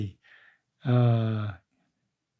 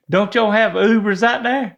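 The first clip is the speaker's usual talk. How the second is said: quoting with a laugh; 4 semitones higher, 4 dB louder than usual. Retold or imitated. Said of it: "You said".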